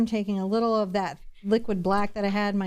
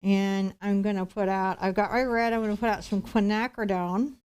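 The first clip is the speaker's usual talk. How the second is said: talking through a mouthful of food; mouth full. Real, not acted. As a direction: say it around a bite of food. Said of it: "with my mouth full".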